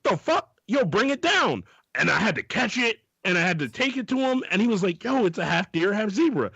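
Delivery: high, frantic excuse-making storyteller voice; squeaky manic comic telling a wild excuse; Kevin Hart impression. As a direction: pitch way up and rant like a panicked late worker. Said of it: "Kevin Hart has one of, like, the best, like, comedy bits".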